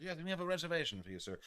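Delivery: high, quick put-on clerk voice; hammed-up hotel clerk. Clerk confirming the guest's reservation, hammed-up. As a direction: rattle it off as an overdone obliging clerk. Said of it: "didn't actually say it like that".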